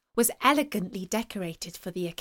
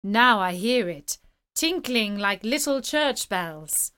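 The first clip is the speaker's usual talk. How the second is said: excited courtier; 4 dB louder than usual. Acted. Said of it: "said the young courtier again".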